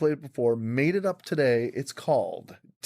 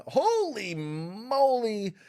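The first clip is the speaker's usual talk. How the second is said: drawn-out holy moly; 10 semitones higher, much slower than usual. Acted. Improv scene exclamation.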